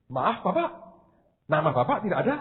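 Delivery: soft imitated Balinese accent with lilting rises; mimicked Balinese lilt, gently spoken. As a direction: politely apologise like a Balinese counter clerk. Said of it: "Orang Bali kan ngomongnya begitu".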